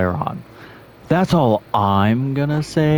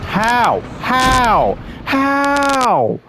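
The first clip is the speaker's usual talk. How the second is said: each how climbing higher; more incredulous with every repeat; baffled gamer asking how; rising disbelief; 10 semitones higher, much slower than usual. Real, not acted. Repeatedly hit in game.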